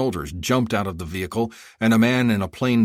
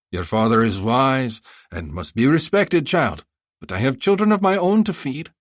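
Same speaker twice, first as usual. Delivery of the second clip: high, effusive haggling vendor; a flattering bazaar seller pitching; eager merchant; 6 semitones higher, 4 dB louder than usual. Acted. Vendor pleading.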